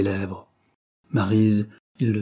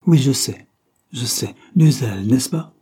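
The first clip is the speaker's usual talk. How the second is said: agitated insistence; 3 semitones higher, 6 dB louder than usual. Acted. Agitated men argue with usher.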